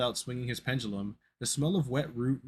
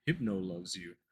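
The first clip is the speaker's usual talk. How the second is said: low, soft creature voice; low muffled Hypno; 3 semitones lower, 4 dB quieter than usual. Acted. Hypno comforts boy.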